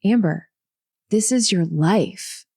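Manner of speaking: slow, succinct, with "life." drawn out and stressed; spaced-out words landing firmly on "life.". Retold or imitated. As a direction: pause after the name, then lean slowly on "life.". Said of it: "she put the emphasis on the word life".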